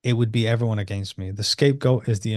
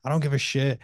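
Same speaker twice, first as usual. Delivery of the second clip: venting anger; 4 semitones higher than usual. Retold or imitated. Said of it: "I was, like, in it then".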